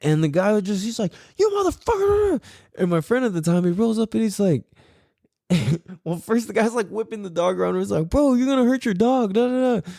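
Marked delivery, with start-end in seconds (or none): 1.4-2.4 high-pitched mock cursing; hammed-up high outburst; imitating an angry old man. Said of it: "so angry, though". 8.1-9.9 higher-pitched imitated warning; mock urgent objection; retold protest. Friend confronting the angry man.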